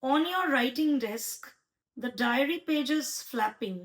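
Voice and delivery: slow, deliberate recital, lies drawn out at the end; slow haiku recital with a falling close; poem reading. Shown as a demonstration. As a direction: read slowly, leaning on each "lies". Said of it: "আরেকটা আমার ভীষণ strike করেছে".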